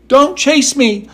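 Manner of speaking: high, slow, frightened plea; frightened little voice. A narrator's reading. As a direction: beg her not to chase, high and slow. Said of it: "such a frightened little voice".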